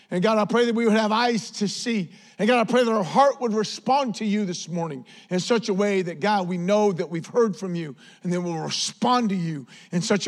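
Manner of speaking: earnest, emphatic prayer over the congregation; fervent public prayer. Real, not acted. Preacher praying to God before the sermon, fervent. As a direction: pray out with conviction.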